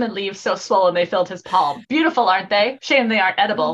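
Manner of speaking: low, measured story voice; dramatic book reading. Acted. Reads novel lines aloud.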